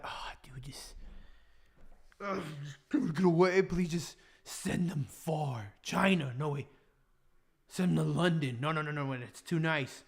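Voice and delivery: quiet, scheming little prayer; muttered mock prayer. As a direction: mutter it to God under your breath. Acted private prayer about annoying person.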